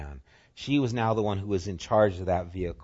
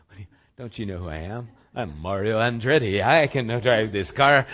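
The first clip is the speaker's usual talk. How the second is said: mock bragging, building louder to the end; cocky teen retort; 7 dB louder than usual. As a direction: boast like an overconfident new driver.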